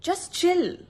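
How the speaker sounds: high, drawn-out chill; soothing advice mimicked mockingly; mock calm advice. Angry speaker mimicking people telling them to chill, high. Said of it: "Most common advice I get".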